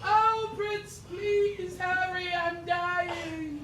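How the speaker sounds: princess voice. Acted.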